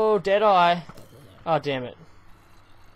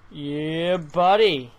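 shouted, louder buddy; loud yeah buddy; 6 dB louder, much slower than usual. Shown as a demonstration. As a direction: punch it out louder. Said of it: "repeated louder".

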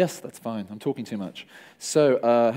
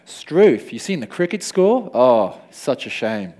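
mock Australian accent, lightly played, with a slow, heavy sigh at the end; 7 dB louder, much slower than usual. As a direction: tease the Aussies in a put-on Australian accent. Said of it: "anyone here, um, from Australia?".

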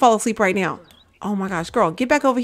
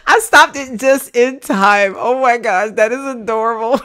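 excited gush; 3 semitones higher, 5 dB louder than usual. Real, not acted. Excited after catching picture.

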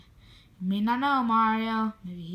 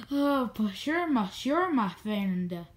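funny put-on voice. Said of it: "why are you speaking like that?".

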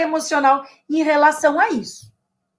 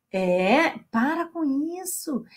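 breathy whisper telling them to stop; whispered scold; 5 dB quieter than usual. Acted. Teacher whispering to viewers to stop the habit. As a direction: whisper it like a secret reprimand.

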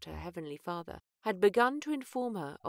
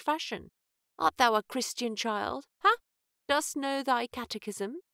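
lightly voiced old minister, raised and higher; a hint of a probing old clergyman; 5 semitones higher, 4 dB louder than usual. Old minister questions the child.

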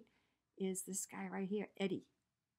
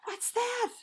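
put-on higher, louder small-boy voice, wondering; Eddie's voice; 10 semitones higher, 6 dB louder than usual. A narrator's reading. Reading to children, Eddie meets the giant teddy in boy voice. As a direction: voice a curious little boy in the dark. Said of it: "said Eddie".

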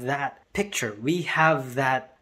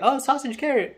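higher-pitched "oh, I get it"; dawning realization; 11 semitones higher than usual. Retold or imitated. Kids recognizing the teacher's example, sudden realization. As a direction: imitate kids suddenly catching on. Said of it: "the kids are like".

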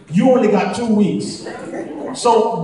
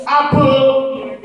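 street vendor call; 5 semitones higher, much slower than usual. Retold or imitated. Friend calling out fruits for sale.

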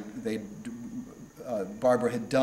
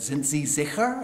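put-on American accent German; 3 semitones higher than usual. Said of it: "in my American accent".

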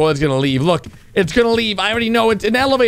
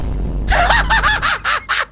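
long, shrieking laughter; high-pitched laugh. Real, not acted. Reactor cracks up at the broken bit, shrieking laugh.

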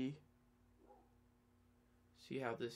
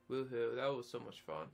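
sarcastic; 3 semitones lower than usual. Pretend. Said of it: "Sarcasm, guys".

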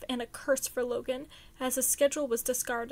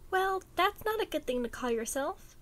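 higher, forced cheerful voice; 5 semitones higher than usual. A narrator's reading. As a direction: sound cheerful while not happy. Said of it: "an attempt at cheerfulness".

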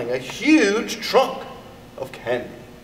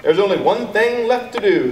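Harriet's declaration pitched up and louder; determined girl; 5 semitones higher, 4 dB louder than usual. A narrator's reading. Harriet deciding to eat all her candy, determined. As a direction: announce the plan like a girl with a secret. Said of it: "said Harriet".

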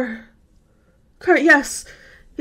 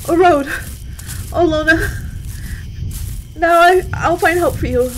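excited cry. Acted. Lost woman spotting a road, crying out in hope. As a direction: call out with sudden relief. Sees road, cries out hopefully.

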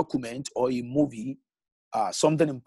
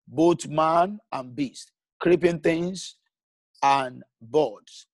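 measured reading of God's words, slowing toward Noah; scripture reading. Acted. Preacher quoting the Lord in Genesis to the church, solemn scripture reading. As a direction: read the verse out solemnly.

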